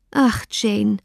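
Ach sighed out over Jane, a touch of grief. Acted. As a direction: breathe a mild sigh on Ach. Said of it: "rief Elizabeth mit einem Seufzer".

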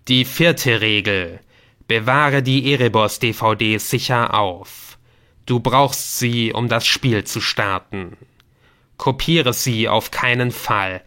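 slow, emphatic game master laying down rules; stern game voice. Acted. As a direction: pronounce each rule like a warning. (strenge, langsame Stimme des Spiels)

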